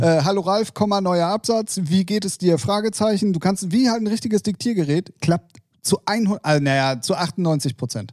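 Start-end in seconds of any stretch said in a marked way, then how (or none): 0.2-3.3 reading an email aloud into a phone, punctuation spoken; dictating. Shown as a demonstration. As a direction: spell out each comma and question mark like dictation. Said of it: "dir zum Beispiel eine E-Mail schicke".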